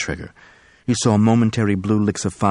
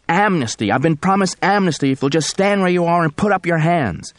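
high, panicked screaming; 10 semitones higher, 3 dB louder than usual. Acted. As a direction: scream it in terror. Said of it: "Robbie Del Rey was screaming".

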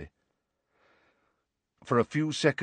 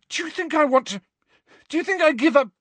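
high, loud, stammering roar; boy shouting down the headmaster; 6 dB louder than usual. A narrator's reading. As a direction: roar over him, tripping on words. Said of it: "Harry roared".

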